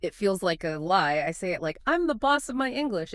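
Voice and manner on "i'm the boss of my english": unsure, like asking permission; timid, with a question mark at the end; small and hesitant. Shown as a demonstration. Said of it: "It sounds so small, so hesitant".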